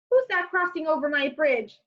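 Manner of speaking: a touch of a troll's shout; lightly voiced troll calling out; mild troll shout. Reading to the class as a grumpy troll. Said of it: "shouted Troll".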